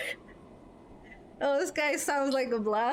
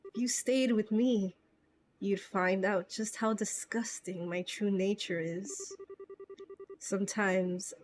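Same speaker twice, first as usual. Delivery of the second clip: Josh's farewell; 3 dB quieter than usual. Retold or imitated. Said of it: "Josh was saying this to Estelle".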